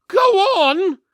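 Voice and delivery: high, loud insistent prod; urgent twin. Acted. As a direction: push the goblin to keep talking. Twin urging goblin to continue.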